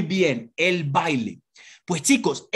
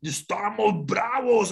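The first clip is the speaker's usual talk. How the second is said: mock angry; slower than usual. Shown as a demonstration. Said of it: "Todos como si estuviéramos bravos".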